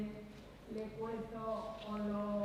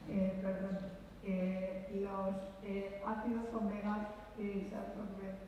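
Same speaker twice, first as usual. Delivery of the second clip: muffled by a face mask; talking behind a mask, muffled; through a face mask; 3 dB quieter than usual. Real, not acted. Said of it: "es que tengo mascarilla".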